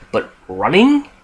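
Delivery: drawn-out, disbelieving "running?"; incredulous question. Real, not acted. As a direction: pitch climbing high in disbelief. Objecting to running zombies.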